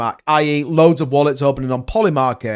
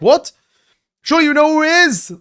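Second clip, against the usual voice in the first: pitched way up, incredulous retort; mock disbelief; 11 semitones higher, 3 dB louder than usual. Reporter challenging Trump's claim, mock incredulous. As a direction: act out a stunned skeptic's reply.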